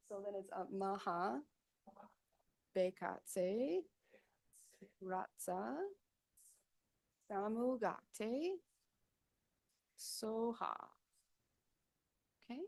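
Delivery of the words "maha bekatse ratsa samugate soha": syllable by syllable, slow; staccato. Shown as a demonstration. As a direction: sound out each syllable. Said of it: "do it syllable by syllable first".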